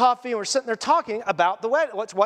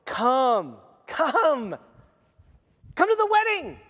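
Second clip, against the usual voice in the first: calling out invitation; slower than usual. Acted. Angel calls out invitation.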